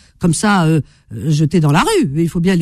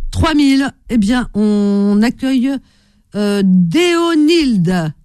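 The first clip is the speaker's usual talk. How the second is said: higher, drawn-out caller welcome; radio host introduction; 4 semitones higher than usual. Real, not acted. Host welcoming a Portuguese caller on air, radio host introduction. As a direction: announce the caller, stretching the name.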